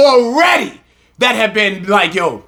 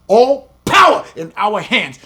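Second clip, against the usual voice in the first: rising preaching shout. Real, not acted. Building to a shout.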